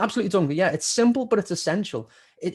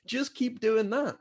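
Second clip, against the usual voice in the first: retold advice; 6 semitones higher than usual. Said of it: "And I said".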